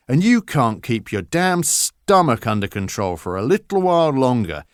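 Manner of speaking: angry father lecture. Acted. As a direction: dress the son down hard. Father lectures Henry angrily.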